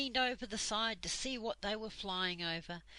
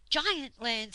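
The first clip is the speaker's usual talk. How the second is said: wondering exclaim; 4 semitones higher, 7 dB louder than usual. Acted. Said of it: "said Silky, looking in wonder".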